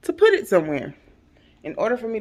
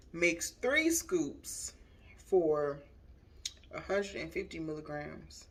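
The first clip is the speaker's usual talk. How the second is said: whispering; 4 dB quieter, slower than usual. Real, not acted. Reading label under breath.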